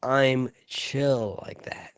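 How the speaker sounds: drawn-out, slow cool-guy line; slow, deliberately chill; laid-back. Pretend. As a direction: stretch it out, unbothered and easy. Repeats it after losing chill points.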